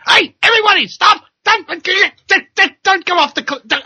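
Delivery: high, loud mock panicked yell; warning shout. Lone cow warning the stampede, loud high yell. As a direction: yell at the herd to stop. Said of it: "and going".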